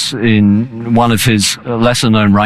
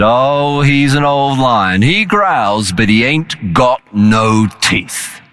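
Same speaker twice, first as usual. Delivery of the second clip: calm and smiling; 2 semitones higher, much slower than usual. Retold or imitated. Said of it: "very calmly smiled and said".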